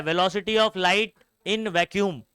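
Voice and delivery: very slow, drawn-out reading; slow dictation. Shown as a demonstration. Teacher spells out the term slowly for students. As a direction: stretch each word for the class.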